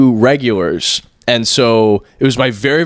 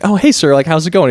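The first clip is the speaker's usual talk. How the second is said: high, put-on friendliness with a big grin; fake-cheery greeting; 6 semitones higher than usual. Counter worker pretending not to know a regular, falsely cheery. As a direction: greet him sweetly through a smug grin. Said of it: "the biggest shit-eating grin".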